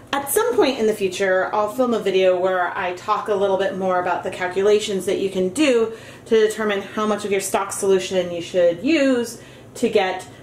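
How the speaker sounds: muffled. Real, not acted. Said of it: "why I sound muffled, it is because I am wearing a dust mask".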